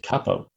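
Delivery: "capo" said as CAP-o; short-A pronunciation. Shown as a demonstration. Cohost correcting the host, "capo" as CAP-o. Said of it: "opposed to app".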